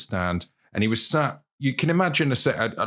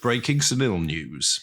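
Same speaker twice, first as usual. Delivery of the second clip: slightly raised, drawn-out news announcer; mock newsflash; 4 semitones higher, slower than usual. Podcast host jokingly announcing breaking news, mock newsflash.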